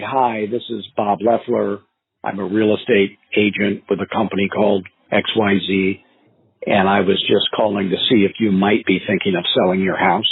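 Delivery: slow, even sales call, each word spaced out; slow calm pitch. Shown as a demonstration. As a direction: take your time so they can follow. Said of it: "like that slow".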